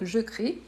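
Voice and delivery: "je crie" ending on a clear ee, E silent; strong final I. Shown as a demonstration. Teacher repeating the conjugated verb, "crie" with clear final I. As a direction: let "crie" finish on a full I sound. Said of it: "mais le I bien fort".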